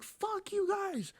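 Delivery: mock squeaky voice. Dad mocking his own softening, very high and slow. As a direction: squeal it out in a silly cartoon voice. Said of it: "And I'm like".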